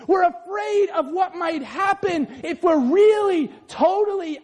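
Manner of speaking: fervent sermon delivery; full-force preaching. Acted. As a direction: preach it out to the crowd.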